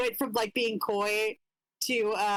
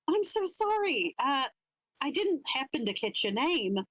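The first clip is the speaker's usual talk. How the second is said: higher-pitched, socially awkward apology; flustered polite apology; 5 semitones higher than usual. Acted. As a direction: apologize politely while caught off guard. Flustered character apologizes in acted reply.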